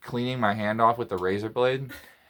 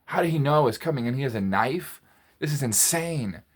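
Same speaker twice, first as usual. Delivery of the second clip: retold astonishment, pitched up; taken aback; 3 semitones higher than usual. Comic voices the dad facing a knife, taken aback. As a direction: imitate a bewildered intruder. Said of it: "like, taken aback".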